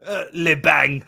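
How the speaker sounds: mock French accent. Playing murder mystery guests after the bang, mock French accent. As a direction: say it as a silly French gunshot. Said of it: "doing this stupid French accent".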